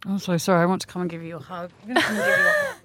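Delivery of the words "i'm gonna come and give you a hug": much higher, bubbly and eager; a sudden sweet squeal of sympathy; squealy high hug offer. Real, not acted. Comforting guest after her story.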